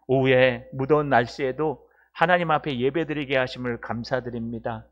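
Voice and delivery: steady, earnest closing prayer; spoken prayer. Real, not acted. Pastor thanks God after the sermon, praying. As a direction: address God in a measured, even-pitched prayer.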